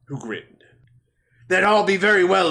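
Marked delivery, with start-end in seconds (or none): 1.5-2.5 lightly voiced sea captain; pirate voice. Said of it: "generic, uh, pirate voice".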